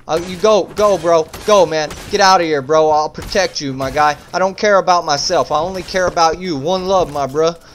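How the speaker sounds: lightly urgent, insistent pleading; mock-heroic urging. Player telling his friend to escape an attacker, mock-heroic urgency. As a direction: urge your buddy to flee, hamming it slightly.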